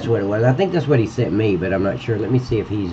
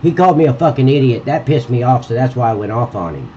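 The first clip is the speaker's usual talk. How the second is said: mocking imitation; 2 semitones higher than usual. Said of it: "So don't act like".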